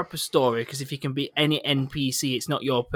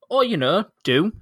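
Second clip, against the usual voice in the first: sarcastic; 6 semitones higher, 5 dB louder than usual. Retold or imitated. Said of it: "Just sarcastic".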